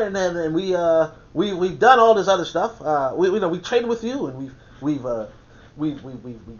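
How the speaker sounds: a light put-on white man's voice; mock a polite colonizer. Colonizer asking Africa for minerals, lightly mocking voice. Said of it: "let's just put on a white voice".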